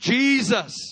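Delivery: all-out, loud, shrill scream pitched very high. Retelling screaming the name at a breakthrough moment: retelling own scream. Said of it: "I just screamed".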